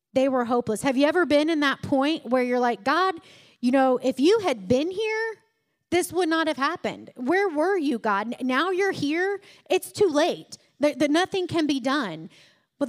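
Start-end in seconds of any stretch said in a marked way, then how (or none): 2.8-12.3 higher, pleading complaint to God; a hurt believer blaming God for coming late; mock lament, higher and pleading; complaining to God.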